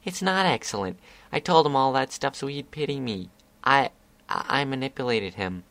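lightly voiced guilty filly; young filly voice. Scootaloo guilty protest.

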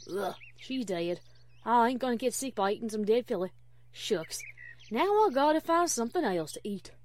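put-on grumbling country-accented wolf; disgusted pretend wolf. Applejack as wolf rejecting a dead filly, disgusted.

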